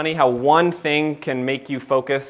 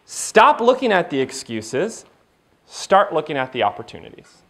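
coach wife. Retold or imitated. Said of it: "Chelsea goes".

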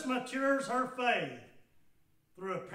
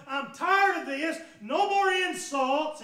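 a touch of hurt anger, louder and higher; mock indignant outburst; 5 semitones higher, 9 dB louder than usual. The offended woman snapping back at Jesus, mildly angry. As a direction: voice her huffy protest as she storms off. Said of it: "She's gonna storm away now".

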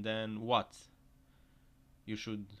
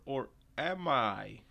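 slow louder tease, drawn out; teasing; 2 semitones higher, 5 dB louder, slower than usual. Pretend. Vlogger voicing the tottering truck, slow teasing. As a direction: stretch it out like a cheeky tease.

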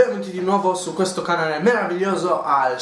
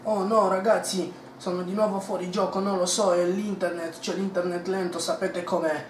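fake innocent whine; 3 semitones higher than usual. Faking bad internet.

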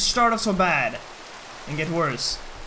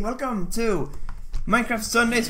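hype intro; 5 semitones higher than usual. Acted. Stream intro hype call.

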